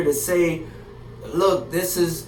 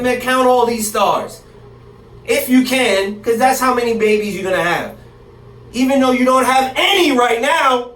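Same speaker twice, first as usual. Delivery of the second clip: yelling God's words; 3 semitones higher than usual. Acted. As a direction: bellow it like God calling out to Abram. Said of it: "Why am I yelling".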